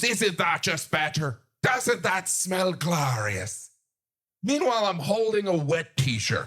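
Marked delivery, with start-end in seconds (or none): 0.0-3.7 proud friend. Retold or imitated. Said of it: "She goes".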